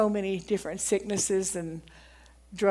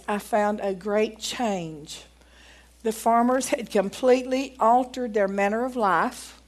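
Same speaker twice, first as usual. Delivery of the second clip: measured, emphatic reading of an account; reading aloud. Acted. Preacher reading a doctor's testimony to the congregation, deliberate read-aloud.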